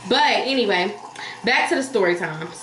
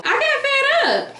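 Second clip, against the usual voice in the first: high laughing burst, slowed; fed up but laughing; slower than usual. Real, not acted. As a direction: laugh through the words. Laughing while retelling anger.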